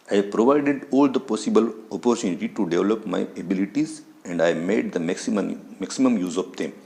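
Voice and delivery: each English word read out slowly and carefully; slow textbook reading. Shown as a demonstration. Teacher reading the English text slowly to students. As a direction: read the line slowly for the class.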